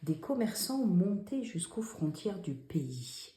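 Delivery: hushed dictation reading; whispered dictation read. Shown as a demonstration. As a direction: read the sentence in a soft whisper. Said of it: "Où sont les dix fautes?".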